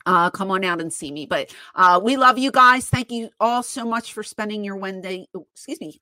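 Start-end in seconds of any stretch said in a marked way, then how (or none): 1.2-5.3 talking around a retainer; slightly impeded speech from retainer; wearing a retainer. Real, not acted. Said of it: "I'm trying to talk with this retainer in my mouth". 5.4-6.0 stumbling over words. Real, not acted. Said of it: "and I'm just stumbling".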